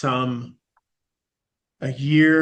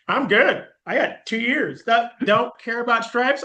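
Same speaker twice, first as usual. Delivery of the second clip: carefree; 10 semitones higher, 4 dB louder, slower than usual. Retold or imitated. Retold carefree self-talk.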